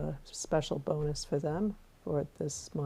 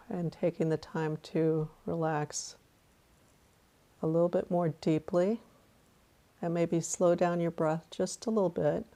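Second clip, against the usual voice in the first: guided meditation. Acted.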